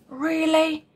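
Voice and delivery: a high, surprised "Really?"; startled little question; a badger caught out, surprised. A narrator's reading. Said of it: "looking surprised".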